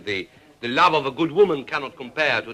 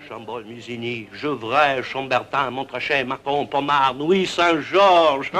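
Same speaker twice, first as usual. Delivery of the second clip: savoring. Acted. Relishing the wine names.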